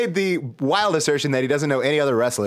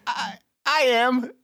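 mock solemn reply; 9 semitones higher, slower than usual. Mock solemn answer to book.

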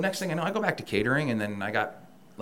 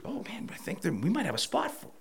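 mocking fake promise; 11 semitones higher, 4 dB quieter than usual.

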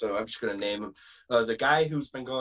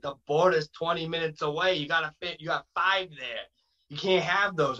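put-on slightly higher Boston-accented protest; Jason Rumble; 4 semitones higher than usual. Wrestler warning friends near the border, light Boston accent. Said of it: "so he talks like this".

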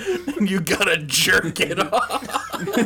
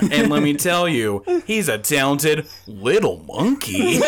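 lower, measured anchor voice; a newscaster's deep steady read; news anchor voice; 3 semitones lower than usual. Pretend. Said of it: "I sound like a fucking news anchor".

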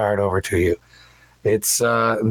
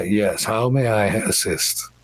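lightly voiced cultured attorney; a hint of refined, courteous speech; cultured elven gentleman. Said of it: "in very cultured common says".

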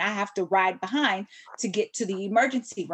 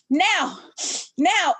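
panicked calling; 7 semitones higher, 4 dB louder than usual. Retold or imitated. Panicked teen copying the dispatcher.

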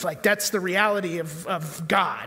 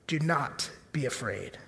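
much softer and lower, gentle; soft reassurance; 6 semitones lower, 7 dB quieter than usual. Shown as a demonstration. Preacher comforting the congregation, soft and low. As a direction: ease the fear out of them gently. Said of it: "repeated softer".

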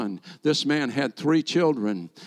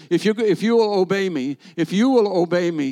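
commanding divine voice; 3 semitones higher, 4 dB louder than usual. Retold or imitated. God's voice quoted.

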